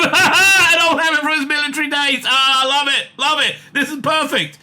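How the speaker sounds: high, laughing and gleeful; laughing delight. Real, not acted. Reader loving the AI's script, laughing delight. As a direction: crack up with delight while talking.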